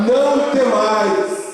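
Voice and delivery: high, drawn-out exhortation; emphatic proclamation. Real, not acted. Pastor hands the word to the congregation, high emphatic exhortation.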